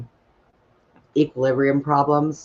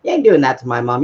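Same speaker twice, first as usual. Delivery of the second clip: indignant outburst; 3 semitones higher, 5 dB louder than usual. Retold or imitated. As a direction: refuse the doctor flat out. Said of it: "I'm like".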